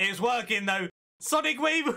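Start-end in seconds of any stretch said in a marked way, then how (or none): 1.2-1.9 shrill, very high, aggressive put-on anime-style yell. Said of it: "I'm just making aggressive sounds".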